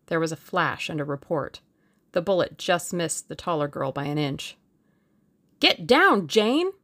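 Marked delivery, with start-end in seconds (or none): 5.6-6.7 loud, raised-pitch warning; sharp shouted order; urgent cry. A narrator's reading. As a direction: cry out to make someone duck. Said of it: "cried Julius".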